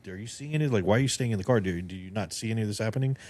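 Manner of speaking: incredulous questions, starting high; acted bewilderment. Guest voicing the driver questioning his passenger, mildly acted bewilderment. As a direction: play a baffled driver demanding answers.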